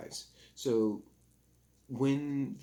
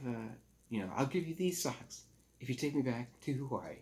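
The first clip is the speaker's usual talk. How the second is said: put-on pleading rich boy; 4 semitones higher than usual. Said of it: "He goes to Big Teddy and says".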